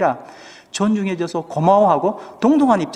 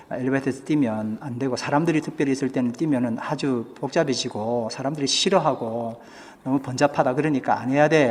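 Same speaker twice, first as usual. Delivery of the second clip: softer, gentle fatherly explaining; kind explanation; 4 semitones lower, 6 dB quieter than usual. Retold or imitated. Father gently tells his son not to run, softly. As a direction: patiently explain to a small son. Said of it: "아주 친절하게 설명을 했어요".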